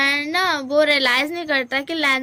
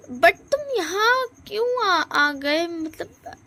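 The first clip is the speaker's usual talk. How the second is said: surprised higher question; 5 semitones higher, much slower than usual. Acted. Wing surprised at his door.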